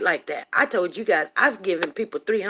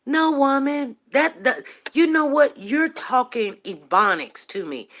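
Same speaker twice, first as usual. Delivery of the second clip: exasperated; 4 semitones higher than usual. Real, not acted. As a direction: push back, fed up. Arguing back at the rival.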